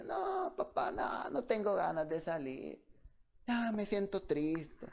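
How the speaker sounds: mild mock of a gloomy teen, soft and slow; sad refusal. Depressed son refusing father.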